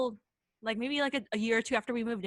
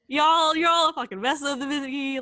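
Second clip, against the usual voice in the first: louder, higher mock rant; imitated angry outburst; 5 semitones higher, 8 dB louder than usual. Storyteller voices spooked friend berating the group, imitated angry outburst.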